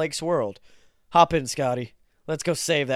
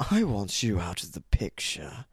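haunting voice; 5 semitones lower than usual. Acted. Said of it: "the silhouetted figure comments".

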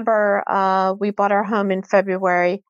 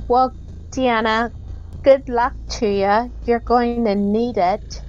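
put-on old woman voice; 3 semitones higher than usual.

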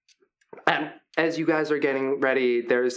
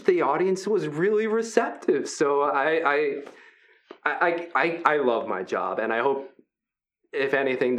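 friendly hulking Brutus. Acted. Big gentle wrestler Brutus welcoming the new fighters, upbeat. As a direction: play the big guy as sweet and encouraging.

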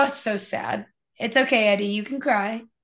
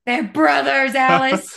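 mock outrage; 4 dB louder than usual. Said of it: "It was a joke".

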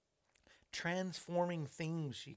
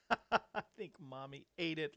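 mock upset. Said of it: "He was so upset".

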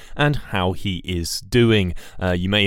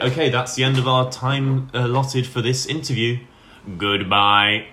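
lightly put-on presenter sign-off voice; a slightly altered voice to sign off; 3 semitones higher than usual. Host signs off so they don't sound similar, put-on voice. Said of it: "I'll do a voice".

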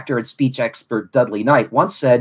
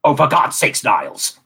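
Frasier impression. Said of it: "his great, uh, impressions".

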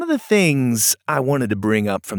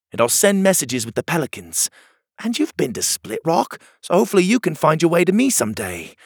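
Pockets, hopeful; 5 semitones higher than usual. Acted. Hero promises his friend.

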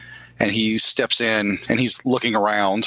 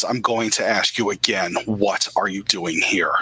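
menacing repeat. Acted. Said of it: "she gets really close to you, and she says".

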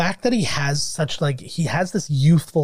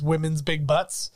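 lightly voiced Sinbad, a bit slow; deadpan the line, drawing it out a little; Sinbad's one line. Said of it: "the only thing he says is".

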